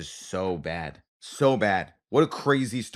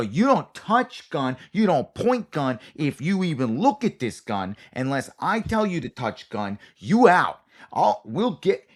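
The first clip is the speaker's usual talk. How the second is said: higher, louder scolding, slow at first; mock-stern dad laying down the law; scoldy coordinator; 5 semitones higher, 4 dB louder, slower than usual. Coordinator scolding the actor about the gun, high and loud. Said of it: "they start off with a scoldy attitude".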